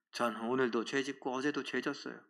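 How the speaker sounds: ordinary talk, nothing marked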